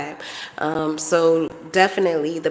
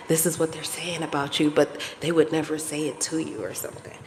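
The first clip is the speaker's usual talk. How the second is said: hushed gossip whisper; 7 dB quieter than usual. Acted. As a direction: tell it like a secret. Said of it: "I'm, like, whispering".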